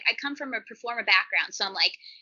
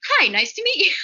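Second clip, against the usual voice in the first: professional politeness; 8 semitones higher, 4 dB louder than usual. Retold or imitated. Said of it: "put on my professional pants".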